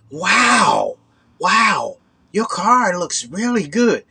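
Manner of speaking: mock-impressed hustler voice; imitating the slick stranger. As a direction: lay the fake praise on thick. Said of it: "people didn't talk like that".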